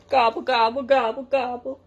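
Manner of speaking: gobbling like a driving tractor; turkey doing the tractor noise; turkey gobble. A narrator's reading. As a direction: gobble it rhythmically. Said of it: "driving off down the lane".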